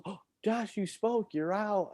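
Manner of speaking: high sing-song teacher voice; teacher calling him out. Retold or imitated. Teacher catching Josh speaking in silent ball, high sing-song. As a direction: mimic a teacher pouncing. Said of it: "the teacher goes".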